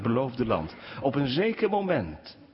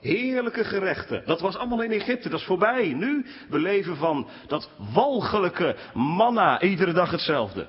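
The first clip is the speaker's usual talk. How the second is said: whiny complaining; 6 semitones higher than usual. Retold or imitated. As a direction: whine about what you left behind. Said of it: "klaagde het volk van Israël".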